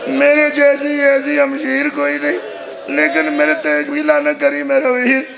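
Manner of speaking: mournful, stretched majlis wail; lamenting preacher. Acted. Sister telling brother of the night guarding orphans, lamenting. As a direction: carry the sister's grief in drawn phrases.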